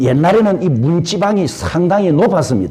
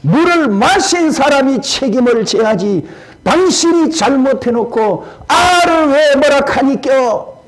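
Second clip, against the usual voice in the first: grumbling; 7 semitones higher than usual. Retold or imitated. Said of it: "부엌에서 듣고 투덜거립니다".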